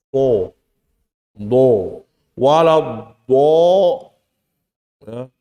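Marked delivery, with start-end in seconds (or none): 0.1-3.5 TO, DO, WALA DO with rounded o-like vowels; pouted lips. Shown as a demonstration. Teacher showing the forbidden way, TO and DO lip-rounded. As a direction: push the lips forward on TO and DO. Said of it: "Nggak boleh misalnya".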